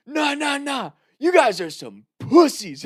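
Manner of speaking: high-pitched mock drunk voice; drunken trash talk. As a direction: taunt them like a drunk buddy. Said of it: "just saying drunken nonsense".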